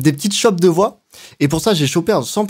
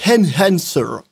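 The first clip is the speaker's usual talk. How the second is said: attempted English accent in French speech; hammed-up English pronunciation; much slower than usual. Shown as a demonstration. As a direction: put on a showy English accent. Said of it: "avec mon superbe accent anglais".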